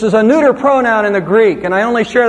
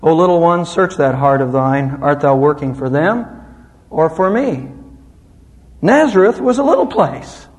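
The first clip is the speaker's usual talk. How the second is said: poem recitation; 3 semitones lower than usual. Shown as a demonstration. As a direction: recite the poem gently, a touch lower. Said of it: "A poem goes like this".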